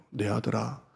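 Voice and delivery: quiet fatherly reassurance; tender comfort. Acted. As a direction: soothe a tired son. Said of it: "이렇게 말해요".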